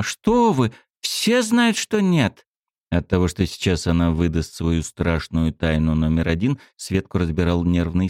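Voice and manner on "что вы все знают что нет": put-on high girl's protest. A narrator's reading.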